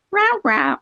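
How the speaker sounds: owner's high meow calling a cat. Retold or imitated. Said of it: "you can go like".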